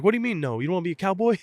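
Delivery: a retold coach, indignant and loud; outraged coach. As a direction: play the stunned coach who can't believe it.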